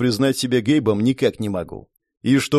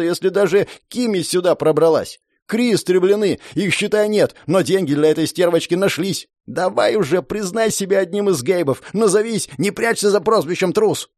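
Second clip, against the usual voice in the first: higher, shouting, swollen with pride; arrogant noble brat, shouting; 5 semitones higher than usual. Acted. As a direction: yell it like a pompous brat. Dors rants about Gabes.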